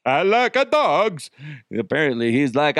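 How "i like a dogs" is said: put-on high, slow, botched Arkansas accent; bad Arkansas accent. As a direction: badly fake Arkansas, pitched way up. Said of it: "that's a really bad Arkansas accent".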